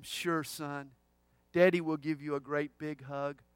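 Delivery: low, soft reassurance, retold; tender father. Father kneeling by his son promises a hug, tender. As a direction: imitate a dad gently soothing his child.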